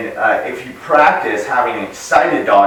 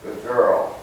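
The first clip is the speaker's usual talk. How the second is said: calm praise; 2 semitones lower, 5 dB quieter than usual. Real, not acted. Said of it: "I'll kinda show you what that looks like".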